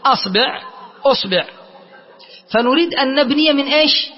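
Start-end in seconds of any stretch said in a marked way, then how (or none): 0.0-0.6 أصبع said asbi', a then i; a hamza, i ba. Shown as a demonstration. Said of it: "الباء مكسورة". 1.0-1.5 أصبع said usbi', u then i; short u, then short i in أصبع; u hamza, i ba. Shown as a demonstration. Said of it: "الباء مكسورة".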